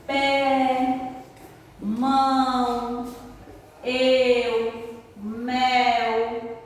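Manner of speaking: teacher calling out example words; word list read aloud. Shown as a demonstration. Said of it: "reading list of example words".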